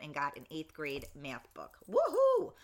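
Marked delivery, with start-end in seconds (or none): 1.9-2.5 high, loud happy whoop for her son; cheering woohoo. Real, not acted. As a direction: cheer like a proud mom. Proud of son's math book.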